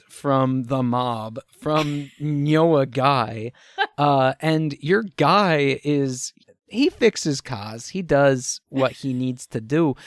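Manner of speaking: slow, ominous mob threat; menacing mob enforcer. Acted. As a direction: lay out the debt like a calm mob heavy.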